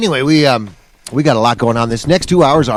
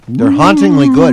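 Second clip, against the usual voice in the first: spooky high voice; 13 semitones higher, 5 dB louder than usual. Pretend. Joke on haunted nachos.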